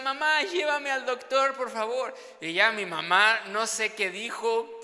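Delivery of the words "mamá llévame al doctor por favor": put-on whiny dramatic child. Child begging mother, stung by bee.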